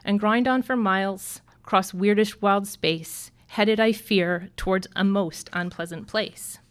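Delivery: rhythmic, sing-song reading of a verse; poem recital. Acted. Teacher reading a Seuss poem to graduates, sing-song recital. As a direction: recite it like a children's rhyme.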